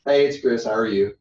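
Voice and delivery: a friendly down-home Southern hello; Southern greeting. Shown as a demonstration. Coach showing a Southern phone greeting to a trainee. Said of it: "I can speak both languages".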